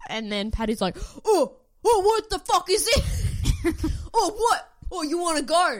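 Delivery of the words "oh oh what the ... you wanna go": much higher, louder laddish mock provocation; high loud cocky bloke, laughing through it; mock tough-guy challenge. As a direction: ham up a lad squaring up. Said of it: "did I do an accent there?".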